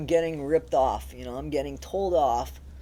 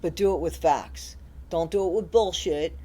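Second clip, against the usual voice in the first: firm insistence; 5 dB louder than usual. Real, not acted. Demanding facts from critics.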